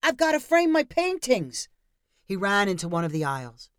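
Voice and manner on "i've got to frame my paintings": high, loud retort; yell. A narrator's reading. Sergei yelling back as he runs off, loud. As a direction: fire it back over his shoulder.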